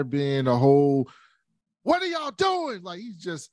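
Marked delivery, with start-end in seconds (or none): 1.8-2.8 mock old king. Old king scolding the fight.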